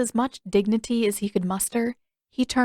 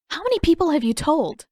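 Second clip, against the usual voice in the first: stern demand; 8 semitones higher, 5 dB louder than usual. Acted. Katara confronting Aang.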